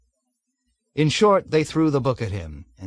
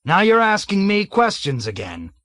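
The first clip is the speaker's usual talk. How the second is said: loud, higher barked rebuke; angry shout; 8 semitones higher, 5 dB louder than usual. A narrator's reading. Colonel shouts down Major Metcalf angrily. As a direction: tear into him.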